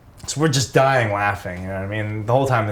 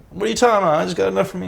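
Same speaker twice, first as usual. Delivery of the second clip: much higher, defensive protest; annoyed Biohazard; 9 semitones higher, much faster than usual. Retold or imitated. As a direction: push back, pitched way up. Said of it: "He was like".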